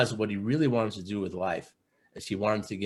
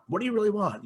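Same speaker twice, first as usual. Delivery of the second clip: pushier repeat; 11 semitones higher, faster than usual. Retold or imitated. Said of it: "I'm pushing him, I'm prodding him".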